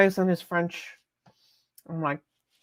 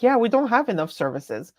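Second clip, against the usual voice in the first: mock corporate reply; 5 semitones higher than usual. Voicing Microsoft's imagined reply.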